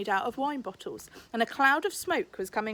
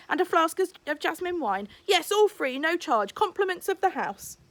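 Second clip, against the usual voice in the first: Rambushy the host. Acted. Rambushy chats, serves customers.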